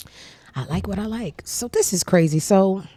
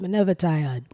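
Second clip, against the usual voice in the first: light put-on Jamaican accent; 4 dB quieter than usual. Daughter answering her mother in a mock Jamaican accent. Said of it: "We're not even Jamaican".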